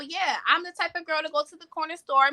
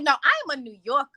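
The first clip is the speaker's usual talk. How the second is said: insisting; faster than usual. Retold or imitated. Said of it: "I'm like".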